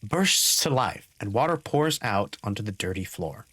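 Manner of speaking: low, steady scene narration; game master narration. Acted. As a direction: describe the flood calmly.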